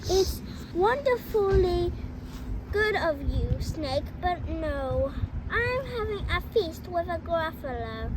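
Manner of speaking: loud, bold little mouse; little mouse boldly turning down the fox, loud; brave mouse voice. Acted. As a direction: play the plucky mouse, proud and sure. Mouse refuses snake.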